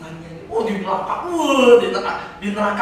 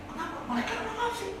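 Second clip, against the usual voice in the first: gatekeeper voice; 8 dB quieter than usual. Acted. Gatekeeper answers the newcomer.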